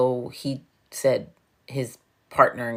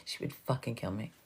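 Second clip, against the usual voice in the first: laughing hard; 2 semitones lower, 11 dB quieter than usual. Real, not acted. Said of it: "I'm laughing so hard".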